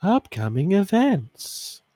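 slow robotic announcer voice; stiff, drawn-out robot voice. Shown as a demonstration. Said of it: "I was trying to sound like the robot voice".

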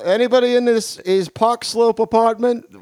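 put-on a light Queens accent, calling out; thick Queens accent, lightly done. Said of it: "his glorious Queens accent".

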